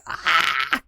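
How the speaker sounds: strained, comic "ah" of dread; mock panicked cry. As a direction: let out a mock-panic noise. Acts out panic at being poor.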